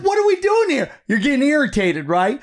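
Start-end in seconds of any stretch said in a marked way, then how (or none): 0.0-0.9 high, incredulous complaint; exasperated. Retold or imitated. Traveller at the airport lane mess, exasperated. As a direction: sound fed up and baffled.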